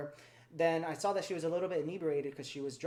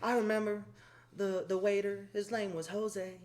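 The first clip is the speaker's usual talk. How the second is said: lightly imitated Southern lady reminiscing; Old South accent; 3 semitones higher than usual. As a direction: mimic her fond Southern storytelling. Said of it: "She had the Old South accent".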